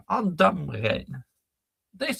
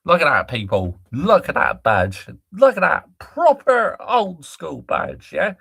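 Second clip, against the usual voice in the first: proud exclamation; 7 dB louder than usual. Real, not acted. Fan proudly showing old badge.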